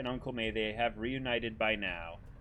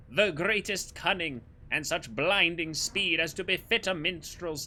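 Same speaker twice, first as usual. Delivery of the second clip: wholesome knight voice; 4 semitones higher than usual. Acted. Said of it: "somehow wholesome Spandam voice".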